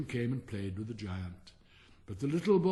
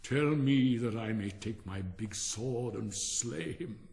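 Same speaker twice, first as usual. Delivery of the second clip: angry giant; 2 semitones lower, slower than usual. Acted. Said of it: "his face grew red with anger".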